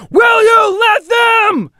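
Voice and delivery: slow, high, loud war chant; bellowed battle cry. A narrator's reading. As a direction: rouse the warriors to fury. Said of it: "shouted Erlach".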